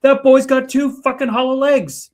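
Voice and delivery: high, loud Scottish granny exclaiming. Retold or imitated. Granny marvels at boy's appetite, loud high Scottish exclaim. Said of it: "my granny in her Scottish accent went".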